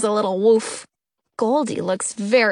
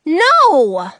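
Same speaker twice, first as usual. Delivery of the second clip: firm no; 4 semitones higher, 7 dB louder than usual. A narrator's reading. Refusing defiantly.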